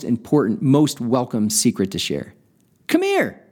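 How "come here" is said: a lightly voiced old man, pitched high; easy friendly invitation. A narrator's reading. Old man inviting the drunk over, a hint of high old voice. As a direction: beckon kindly like an old grandfather. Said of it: "the old man said in an easy vernacular".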